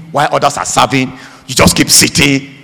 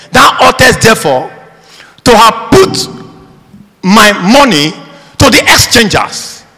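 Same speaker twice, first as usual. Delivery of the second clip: forceful scripture reading; 5 semitones higher, 3 dB louder than usual. Acted. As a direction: declaim the master's rebuke, word by word. Reads scripture aloud forcefully.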